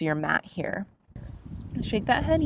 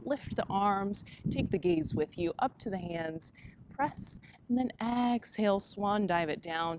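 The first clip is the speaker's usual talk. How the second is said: yoga cueing. Acted. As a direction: guide the class through each breath. Leads yoga flow cues.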